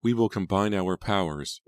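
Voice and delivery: lifted, resolute tone; declaring. A narrator's reading. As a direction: declare it like a vow. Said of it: "Angelica declared".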